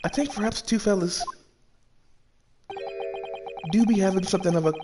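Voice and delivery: a hint of a sly Irish witness, soft and knowing; lightly voiced Irish witness. Sly witness hinting to the judge, lightly Irish-voiced. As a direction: play the coy witness hinting at a secret. Reads witness lines in character.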